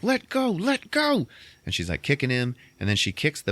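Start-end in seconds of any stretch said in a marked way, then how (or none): 0.0-1.3 high, slow, strained let go; mock tug-of-war. Kathy Bates fighting for the bag, high slow mock strain. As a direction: drag it out like pulling the bag back.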